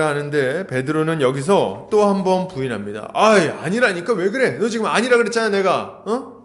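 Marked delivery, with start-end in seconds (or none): 3.1-6.4 higher-pitched, irritated mock protest; acted exasperated denial. Peter denies once more to his accuser, acted exasperated denial. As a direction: push back as if sick of being asked. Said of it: "이렇게 딱 부인을 합니다".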